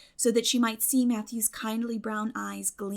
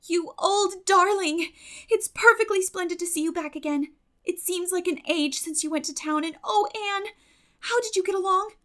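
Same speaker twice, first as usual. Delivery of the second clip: put-on much higher, louder, delighted girlish welcome; excited greeting; 10 semitones higher, 6 dB louder than usual. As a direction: gush over a friend back home. Diana greets Anne after absence.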